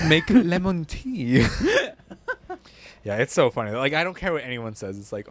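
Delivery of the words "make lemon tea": laughing. Real, not acted. Cracks up at own joke.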